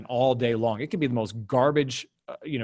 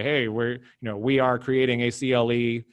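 flat monotone robot voice. Retold or imitated. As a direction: read it like a droning robot. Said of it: "that's my best robot voice that I can possibly do".

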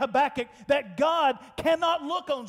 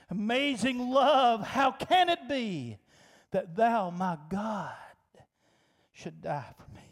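spoken hymn lyric; 3 semitones lower than usual. Real, not acted. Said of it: "If I could sing it, I would".

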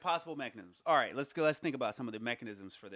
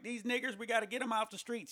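a raised, hammed-up cartoon bigot; mock Klan racist; 9 semitones higher than usual. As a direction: play the cartoonish Hollywood racist.

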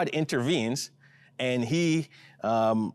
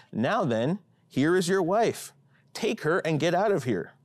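higher, indignant demand; 4 semitones higher than usual. Acted. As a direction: throw him out of the palace. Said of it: "Pharaoh demanded".

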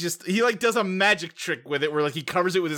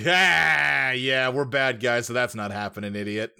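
Kingpin; 3 semitones lower than usual. Retold or imitated. Crime boss refusing his partner's exit, mock dismissive villain voice. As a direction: play a dismissive villain, slowing down after the first cry. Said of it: "And Kingpin just like".

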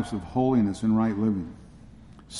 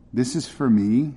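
surprised. Acted. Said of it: "said Joe, surprised".

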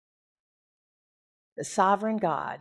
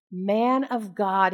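slow, pleading captain; a lightly voiced begging soldier; begging plea; slower than usual. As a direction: plead humbly for your life. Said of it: "do you notice the difference here?".

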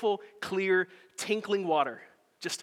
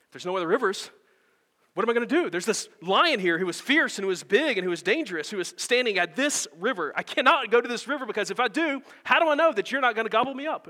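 higher and louder, rising panic; a frightened child pleading, building fast; panicked girl; 5 semitones higher, 5 dB louder than usual. Acted. Preacher voicing Jill pleading with the lion, frightened and loud. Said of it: "Jill says".

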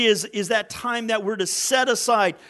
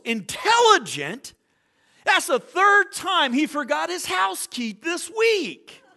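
put-on higher, scoffing old man retort; grumpy old guy; 8 semitones higher than usual. The grumpy owner scoffs at the follower, lightly voiced old man. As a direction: sneer at the dog's so-called brains. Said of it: "He goes".

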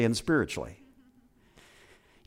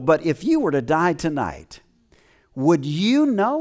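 hushed question. Retold or imitated. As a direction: lean in and whisper the question. Tom's gospel question retold softly.

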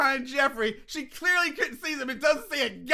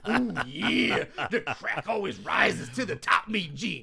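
loose wrestler promo, drawn out; Macho Man impression; 2 semitones lower than usual. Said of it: "that fucking Macho Man".

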